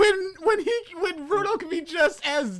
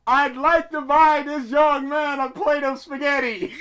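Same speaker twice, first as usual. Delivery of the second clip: loud, over-the-top mock announcement; yelling; 3 semitones higher, 8 dB louder than usual. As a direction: bellow a polite order far too loudly. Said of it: "Why are you yelling this?".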